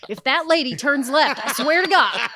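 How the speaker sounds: donkey swears revenge, laughing; mock threat.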